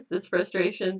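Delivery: giggling through the affirmation; a real laugh spills into the words; can't stay serious. Real, not acted. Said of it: "see, I'm, I'm laughing".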